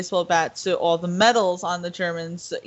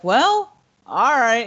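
high mock Brad Pitt take; lightly voiced Lieutenant Rain; Brad Pitt's drawl; 4 semitones higher, 5 dB louder, slower than usual. Retelling the film, a mock high Brad Pitt. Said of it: "And he's like".

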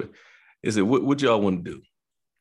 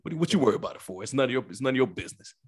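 mocking nosy bystander; 4 semitones higher, faster than usual. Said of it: "You had somebody up there like".

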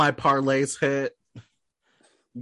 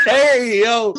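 shout; 11 semitones higher, 7 dB louder, much slower than usual. Real, not acted. Shouting greeting back.

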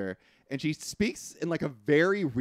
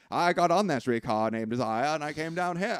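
lightly imitated New Orleans lady accent; a hint of Southern belle accent; 2 semitones higher than usual. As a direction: play the sister with a put-on Southern accent. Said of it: "you're doing an accent for all the ladies".

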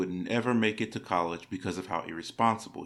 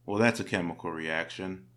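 deadpan. Retold or imitated. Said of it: "said in a deadpan voice".

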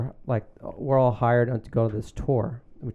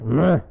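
mock grunt; 5 dB louder than usual. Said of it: "so he grunts".

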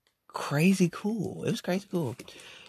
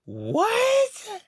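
high, loud startled yelp; shocked; 11 semitones higher, 4 dB louder, much slower than usual. Retold or imitated. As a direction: react in disbelief. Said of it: "And I was like".

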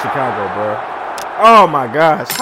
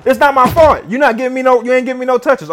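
a lightly voiced player pleading with his coach, higher; half-playful whine for the ball, pitched up; player begging coach; 7 semitones higher, 4 dB louder than usual. Levi the player complaining to his coach, mildly mock whiny. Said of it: "He like".

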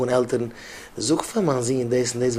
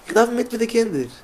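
high, slow, drawn-out emphasis on darf; emphatic; 10 semitones higher, much slower than usual. Shown as a demonstration. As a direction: stretch each word out high and slow, leaning on darf. Repeats phrase, then emphatic take. (אויסגעצויגן הויך, מיטן טראפ אויף darf)

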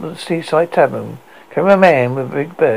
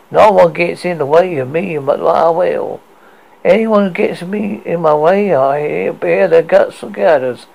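louder, wild captain's threat; 3 semitones higher, 4 dB louder than usual. Acted. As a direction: threaten them wildly. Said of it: "and said wildly".

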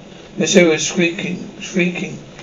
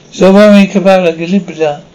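chanted spell, loud; loud incantation; 5 dB louder than usual. Acted. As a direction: intone the spell loudly.

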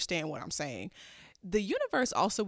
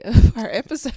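laughing; 3 semitones higher, 14 dB louder than usual. Real, not acted. Laughs on these words.

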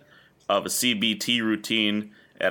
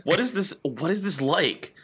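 musing to self; 8 semitones higher than usual. Retold or imitated. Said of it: "I'm like".

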